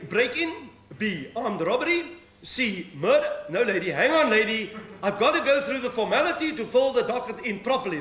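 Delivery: lightly voiced police sergeant answering the phone; policewoman on the phone. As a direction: play the duty sergeant taking a call. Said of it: "Sergeant Minnie".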